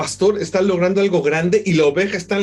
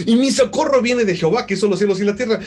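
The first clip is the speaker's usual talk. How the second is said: emphatic proclamation; 4 semitones higher, faster than usual. Acted. Proclaiming the psalm.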